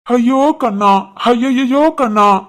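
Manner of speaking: slow, drawn-out fake sobbing lament; mock wailing. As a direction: wail as if he has died, overdone. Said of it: "ஏன்டா இந்த அழுகுரல்". (இழுத்து இழுத்துப் போலி ஒப்பாரி)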